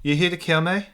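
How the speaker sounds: shaky attempt at an Irish accent. Game master voicing the cornered fighter, attempted Irish accent. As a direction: try an Irish accent, not quite landing. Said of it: "why can't I do a fucking Irish accent".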